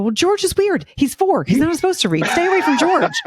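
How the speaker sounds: mock-serious parent voice. Mother telling daughter George is weird.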